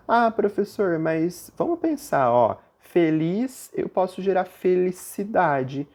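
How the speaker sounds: lightly voiced student raising a hand; student objecting. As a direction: play the curious pupil interrupting the teacher. Teacher voices an imagined student's objection.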